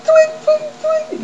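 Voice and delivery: high chirpy tweet tweet; playful movie-quote chirping; quoting a movie bit. Retold or imitated.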